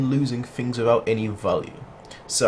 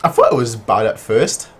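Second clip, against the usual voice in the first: louder, exasperated; loud exasperation; 5 semitones higher, 8 dB louder than usual. Real, not acted. Gamer ranting at the story, louder. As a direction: complain loudly at the screen. Rant about worsening story.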